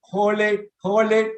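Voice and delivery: held-breath cue pitched high; breathing exercise coach; breath-holding cue. Shown as a demonstration. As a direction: call it out while holding the breath. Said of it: "Just take a deep breath".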